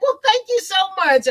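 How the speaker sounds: high, sweet and gracious; polite thanks. Retold or imitated. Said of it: "They'll be like".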